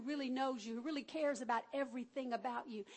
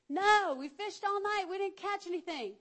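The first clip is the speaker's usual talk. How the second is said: weary disciple; 6 semitones higher, 6 dB louder than usual. Acted. Disciples answering Jesus from the boat, higher, louder weary voice. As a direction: answer like worn-out fishermen.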